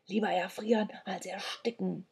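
soft, muted mutter; hushed wry remark; quiet aside. A narrator's reading. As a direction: murmur it so only your friend hears. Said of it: "sagte Sandro leise".

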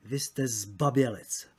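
slow, weighted accusation; deliberate, emphatic delivery without shouting; most emphatic. A narrator's reading. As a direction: stress "zbabělec", drawn out slowly. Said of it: "hlasem co nejdůraznějším".

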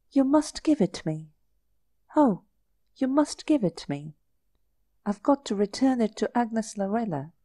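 coaxing, high begging voice; pleading. Acted. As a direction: wheedle him into giving it. Girl pleading with Edward.

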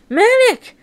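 high-pitched cry of the name; excited cry. Acted. Friend seeing Manic return after years, excited cry. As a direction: call out high in astonished recognition. Greeting the returned missing hero.

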